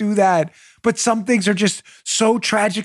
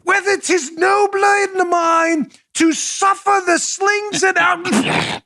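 much higher, slow, declaimed stage actor shout; hammed-up Shakespeare; 11 semitones higher, slower than usual. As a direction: play a pompous stage Hamlet. Hamming Hamlet again.

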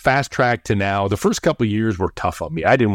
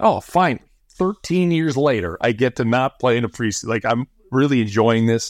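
sarcastic cheer, pitched up high; mock delight; 4 semitones higher than usual. Retold sarcastic thought about sitting out the preseason, mock delight. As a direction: ham up fake contentment at being benched.

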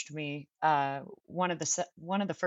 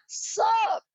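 high, loud put-on Teeter greeting; brash character voice, higher and louder; 5 dB louder than usual. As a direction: drop straight into the character's voice. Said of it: "I just, like, go right in".

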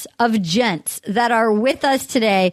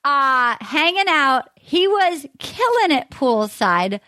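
hammed-up Boston accent. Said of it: "Can I do a Massachusetts accent".

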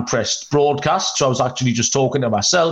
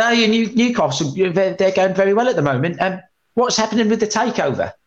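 higher Essex bloke impression; Essex accent; 7 semitones higher than usual. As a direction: put on a Beckham-style Essex voice. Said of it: "it's not bad".

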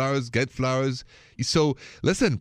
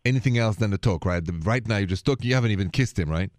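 put-on heavy French accent, suave radio host; a French host purring into the mic; French late-night radio host with a thick Paris accent; 4 semitones higher than usual. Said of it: "this thick accent of mine is from Paris".

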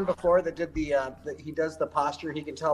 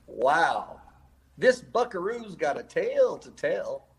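cowboy voice; slower than usual. Pretend. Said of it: "that's you talking like a cowboy?".

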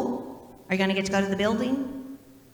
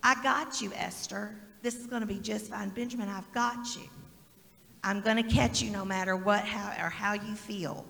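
God reassuring. Retold or imitated. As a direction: gently speak as God catching them. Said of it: "God's standing right there saying".

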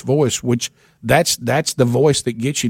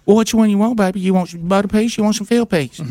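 much higher, sweet and doting; waitress voice; 8 semitones higher, faster than usual. Retold or imitated. Waitress offering fried chicken to caller, high and doting. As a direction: dote on him like a favorite customer. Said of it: "hear her voice saying to me".

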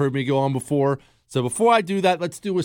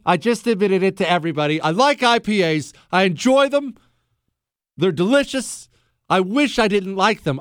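exasperated confession; 6 semitones higher than usual. Real, not acted. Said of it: "I'm bearing my soul here".

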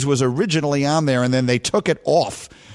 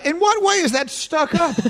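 indignant disbelief; 12 semitones higher than usual. Real, not acted. Indignant at being called stuck up.

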